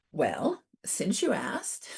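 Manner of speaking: a quick teasing whispered aside; playful whisper. Real, not acted. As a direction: lean in and whisper it like a private joke.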